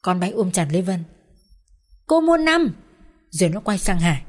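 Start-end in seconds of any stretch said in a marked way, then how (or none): 2.1-2.7 high, loud gleeful cheer; little girl cheering for her aunt; child cheering. Acted.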